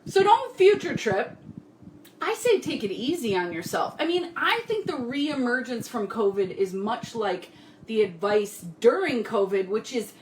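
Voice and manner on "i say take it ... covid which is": talking while chewing gum; words round a piece of gum. Real, not acted. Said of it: "I gotta get rid of this gum".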